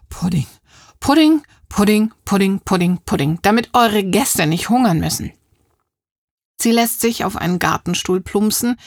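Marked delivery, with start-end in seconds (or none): 0.1-5.3 excited. Acted. Proud listing of puddings.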